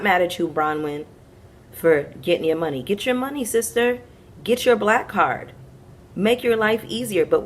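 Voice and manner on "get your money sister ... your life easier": hype cheer. Real, not acted. Cheering Bronwyn on to get paid.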